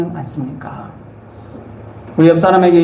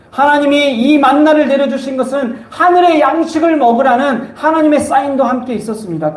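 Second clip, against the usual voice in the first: raised-pitch sermon delivery; emphatic preaching; 7 semitones higher than usual. Real, not acted. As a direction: press the point home to the congregation. (높은 음으로 힘주어 설교하듯)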